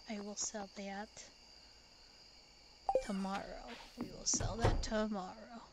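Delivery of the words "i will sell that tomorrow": whisper. Shown as a demonstration. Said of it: "whispered take before plain repeat".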